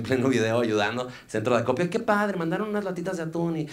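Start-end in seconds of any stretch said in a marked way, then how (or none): 1.9-3.6 mock outburst. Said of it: "reventó".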